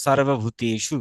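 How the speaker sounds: 'sarvabhuteshu' for সর্বভূতেষু, long 'e'; Sanskrit dental s. Shown as a demonstration. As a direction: true 's' opening সর্বভূতেষু. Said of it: "স এর মতো উচ্চারণ". (সংস্কৃত উচ্চারণে সর্বভূতেষু)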